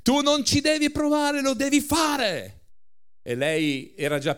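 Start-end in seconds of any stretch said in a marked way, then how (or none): 0.0-2.6 preacher re-enacting the giant's roar; repeated shout. A narrator's reading. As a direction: shout it once more for effect. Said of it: "Immagine, lei non è svenuta".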